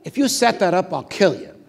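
loud mock threat through laughter; typical Scalia threat. Scalia accusing the judge of a setup, mock threat. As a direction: play the gruff friend teasingly. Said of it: "this typical Nino Scalia".

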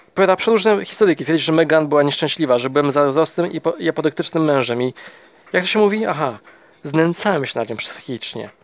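spitting the words out in disgust. Acted. Husband spitting out the therapist's claims in disgust. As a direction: sneer at the accusations. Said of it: "Wypluwa te słowa z odrazą".

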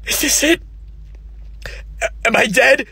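high, timid asking; scared question. Acted. Newly dead man asks the man in white, high and scared. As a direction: ask it like a lost soul. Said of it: "you're like".

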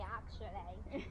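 drawn-out put-on English "actually", rising; English accent. Girl showing off her accent to family, English accent. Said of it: "I'm talking my English accents everywhere".

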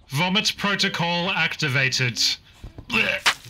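mock system announcement. Announcing own vomiting as a protocol.

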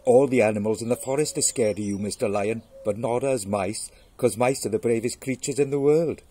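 loud, lightly voiced mouse; boastful mouse. Mouse bragging to the lion, boastful. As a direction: brag loudly as a little mouse.

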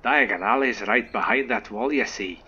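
a light Scottish lilt on a gentle giant; Scottish accent. Acted. Player greeting a new student, in a mild Scottish accent. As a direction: voice the groundskeeper with a hint of Scottish. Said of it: "I don't know why I went Scottish".

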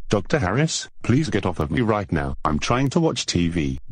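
sing-song parroting, rising on the name; mocking copycat voice. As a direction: echo it back teasingly. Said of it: "you copying me".

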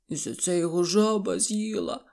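put-on weepy voice; lightly acted crying; tearful lament. A narrator's reading. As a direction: add it sadly, acting upset. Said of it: "гірко заплакали".

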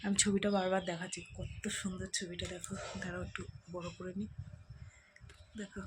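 hushed voice so the sleepers stay asleep; speaking softly. Real, not acted. Showing the house while everyone sleeps, softly hushed. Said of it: "আস্তে আস্তে কথা বলতে হচ্ছে".

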